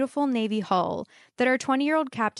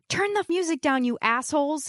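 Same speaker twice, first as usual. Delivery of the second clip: put-on higher, angry Italian accent telling them off; a light Italian accent, raised and irritated; thick Italian accent; 5 semitones higher than usual. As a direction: bark it like an annoyed Italian yachtsman. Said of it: "he said in a thick Italian accent".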